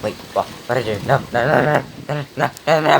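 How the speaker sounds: frantic rising screams of no; panicked screaming. Real, not acted. Alarm at what the device did.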